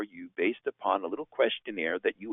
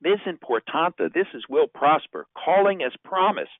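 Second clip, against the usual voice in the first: leaving a voicemail; 6 semitones higher than usual. Shown as a demonstration. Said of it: "Here then is an opening bookend".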